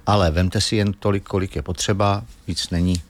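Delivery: demonstrating calm, low-key reassurance. Shown as a demonstration. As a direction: talk gently and evenly, as if negotiating with a mosquito. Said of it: "a klidným hlasem musíte říct".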